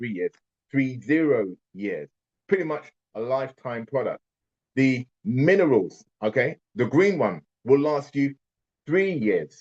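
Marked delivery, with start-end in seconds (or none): 0.0-2.1 said slowly and deliberately, unhurried. Speaking to listeners on a call so they understand, speaking slowly. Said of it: "I have to say that slowly".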